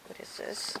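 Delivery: real hushed whisper of disbelief; whispered surprise. Real, not acted. Reader stunned by a drawn card, whispering. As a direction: breathe it out in an unvoiced whisper, amazed.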